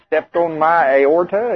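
slowly savoring his own joke line; fond slow repeat. Retold or imitated. Preacher to congregation, repeating his joke line fondly and slowly. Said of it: "I made up that one. I really liked it".

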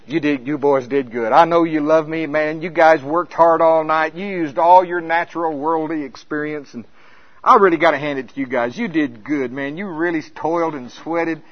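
pat them on the back kindly; mildly voiced encouraging Jesus; gentle praise. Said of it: "Jesus should come up and go".

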